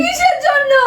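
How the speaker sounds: husband crying out at his wife after the TV breaks; crying shout. Acted. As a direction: cry out the question in dismay. After the TV is broken.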